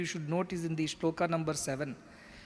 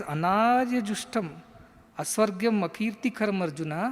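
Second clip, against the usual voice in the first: scolding Krishna; 3 semitones higher than usual. Acted. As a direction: deliver the verse as a mild rebuke. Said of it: "he straight away scolds him".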